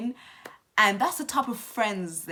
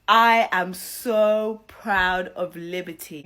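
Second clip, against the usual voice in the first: louder and slow, stretching each word; emphatic praise; 7 dB louder, slower than usual. Real, not acted. Vlogger praising Liberty to viewers, loud slow emphasis. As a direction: drive the pride home slowly.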